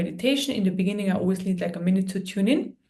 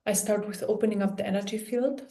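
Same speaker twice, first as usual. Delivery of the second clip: calm meditation guide with long pauses; guided meditation; 3 dB quieter than usual. Real, not acted. Healer guiding listeners through an energy clearing, calm guided meditation. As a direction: talk them gently through it, pausing often.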